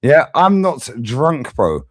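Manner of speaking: slow, put-on Scouse; Scouse accent. Shown as a demonstration. Streamer denying he is drunk, in Scouse accent. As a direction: stretch it out in a mock Scouse accent. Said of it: "when I do it in a Scouse accent".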